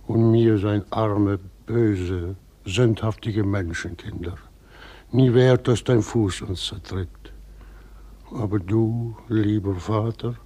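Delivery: slow, humble, devout prayer; morning prayer. Acted. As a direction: pray aloud to God like a pious old weaver. Old Hilse leads morning prayer.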